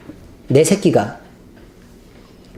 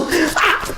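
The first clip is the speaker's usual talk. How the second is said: demon's cry; 11 semitones higher, 4 dB quieter than usual. Retold or imitated. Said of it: "이렇게".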